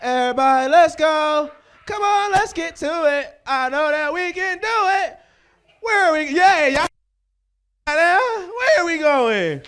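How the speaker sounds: put-on high, eager kids' show cheer; Dora the Explorer. High comic imitating a kids' TV show, rallying the viewers brightly. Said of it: "I'm watching Dora the Explorer".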